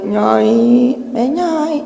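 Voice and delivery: put-on child calling. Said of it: "malah manggil".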